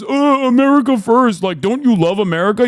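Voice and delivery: high, loud mocking dumb-guy voice; mock MAGA fan. Streamer mocking a European America First fan, high and loud. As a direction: sneer it like a clueless flag-waver. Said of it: "your dumb fuck ass turns around and goes".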